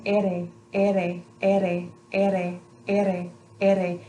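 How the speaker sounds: ere with a fast single tongue tap, mouth open; quick tapped ere. Shown as a demonstration. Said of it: "see how quick of a movement it is".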